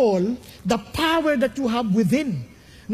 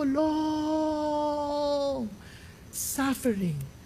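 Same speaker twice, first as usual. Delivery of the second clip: long held, suffering slow and softer; softer repeat; 2 semitones higher, 6 dB quieter, much slower than usual. Shown as a demonstration. Preacher repeats long suffering quietly to congregation. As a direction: linger on long, drop suffering soft and slow. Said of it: "Titiisin ko".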